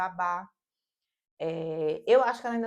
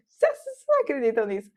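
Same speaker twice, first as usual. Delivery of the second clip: excited; 3 semitones higher, 9 dB louder, faster than usual. Real, not acted. Thrilled telling to viewers.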